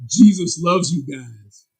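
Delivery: slow, mocking sarcastic tone. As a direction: drag it out with sarcasm. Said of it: "like, real sarcastic".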